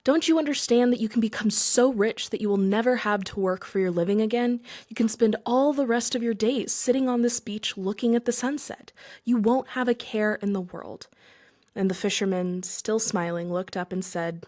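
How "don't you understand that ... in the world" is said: mild mock shout. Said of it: "red with rage and shouted at the fisherman".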